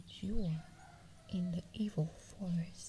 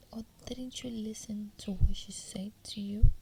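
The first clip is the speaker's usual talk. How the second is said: louder whispered scolding from the forest woman; stern scolding; 8 dB louder than usual. Acted. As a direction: scold her harshly but keep whispering. Witch scolds the captive girl.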